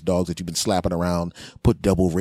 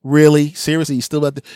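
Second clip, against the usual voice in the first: surprised; 6 semitones higher, 6 dB louder than usual. Retold or imitated. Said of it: "I didn't even".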